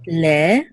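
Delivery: "le" with a slightly lengthened eh; held vowel. Shown as a demonstration. Teacher shows the Tzere sound, "le" held a little longer. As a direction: hold the pure eh in "le" a little longer. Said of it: "hold it a little bit longer".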